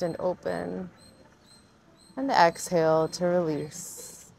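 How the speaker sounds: unhurried meditation guide, long pauses between cues; guided meditation. Acted. Yoga teacher guiding viewers into their breath, guided meditation voice. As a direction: lead gently through each breath, leaving space.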